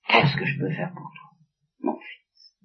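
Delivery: chuchotement impuissant. Acted. Isaac helpless before Esau.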